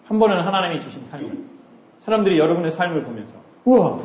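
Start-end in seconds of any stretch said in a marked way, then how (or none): 3.6-4.0 brief acted wow of wonder; admiring wow. People seeing how you live, admiring wow. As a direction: imitate an impressed onlooker. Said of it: "이렇게".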